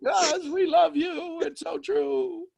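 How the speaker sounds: very high, slow crying voice; real tearful crying. Real, not acted. Moved by the love and truth, crying. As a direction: draw the words out through tears. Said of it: "Why am I crying".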